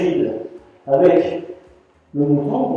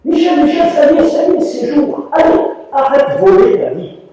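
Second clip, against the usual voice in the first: higher, louder urgent calling; urgent wake-up call; 11 semitones higher, 5 dB louder than usual. Retold or imitated. Master waking Michel at dawn, urgent call. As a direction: call him awake as if the house burned. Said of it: "comme s'il y avait feu dans la maison".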